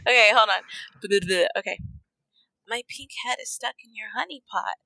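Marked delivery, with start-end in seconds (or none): 2.7-4.8 piglet voice. Pretend. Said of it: "Piglet's voice".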